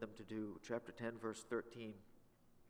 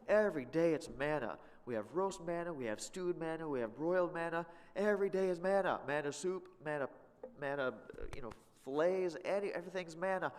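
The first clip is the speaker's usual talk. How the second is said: raised, whining litany of manna; mock complaint; 5 semitones higher, 3 dB louder than usual. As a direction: ham up the boredom with manna. Preacher mocks the people's manna complaint.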